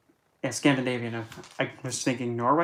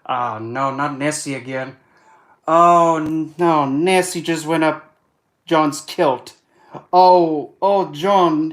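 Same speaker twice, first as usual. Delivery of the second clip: hammed-up Scottish dismay, building to loud, high alarm; Scottish accent, mock-frantic outburst; 3 semitones higher, 8 dB louder than usual. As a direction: panic louder and higher in a put-on Scottish accent, then ease off. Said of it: "Then there's Scottish".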